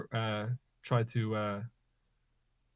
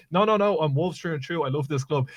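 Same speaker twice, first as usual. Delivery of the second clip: mock insistent player; 3 semitones higher, 5 dB louder than usual. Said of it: "It's like".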